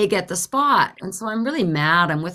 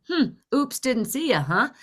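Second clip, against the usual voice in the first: lightly mocking, higher musing tone; scheming echo; 5 semitones higher than usual. Driver thinking of revenge on the woman, slyly musing. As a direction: muse on the taunt, plotting payback. Plotting revenge, echoing the taunt.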